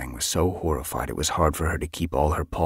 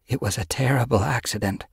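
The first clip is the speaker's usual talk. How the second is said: consoling; 6 semitones higher than usual. A narrator's reading. Yellowfang answering grieving mother, consoling. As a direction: break it gently to the bereaved.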